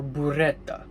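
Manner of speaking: burrata said in an Italian accent. Shown as a demonstration. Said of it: "in Italian accent".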